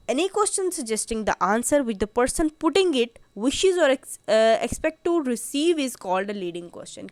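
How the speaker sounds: slow, deliberate reading of the law text; reading the statute. Shown as a demonstration. Teacher reading the definition to law students, slow and deliberate. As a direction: read each legal phrase out slowly for students.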